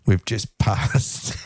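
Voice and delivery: slow, even robot voice. Pretend. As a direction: speak it like a robot voice alert. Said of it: "The little robotic voice in your ear".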